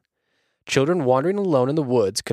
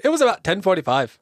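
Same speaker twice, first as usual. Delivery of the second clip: put-on higher, louder, quick valley girl line; 8 semitones higher, 5 dB louder, faster than usual. Shown as a demonstration. Narrator voicing the victim, valley girl take. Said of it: "Is that better?".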